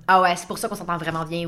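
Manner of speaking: self-satisfied realization. Retold or imitated. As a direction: voice a smug little aha. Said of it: "puis dire comme".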